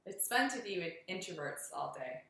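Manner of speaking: dry, understated sarcasm; sarcastic. Real, not acted. Teasing hiking partners about introverts, dryly sarcastic. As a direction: say it dryly, without playing it up. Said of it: "She says that sarcastically".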